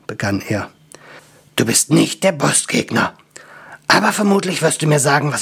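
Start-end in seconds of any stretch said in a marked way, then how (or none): 1.6-5.4 unvoiced whisper, fast at the end; hushed wary whisper. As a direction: whisper it warily to the angel. Dwarf addresses angel.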